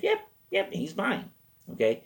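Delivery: very high, squeaky little yaps; imitated dog. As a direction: yap it like a tiny dog coming to. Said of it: "He goes".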